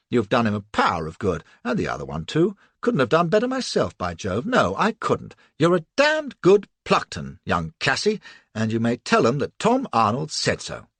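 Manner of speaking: loud bluff heartiness; hearty praise. Acted. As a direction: clap her on the back verbally. Bluff officer praising her loudly.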